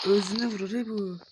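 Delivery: real loud reaction; loud exclamation. Real, not acted. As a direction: call it out at the screen. Reacting to in-game self-harm.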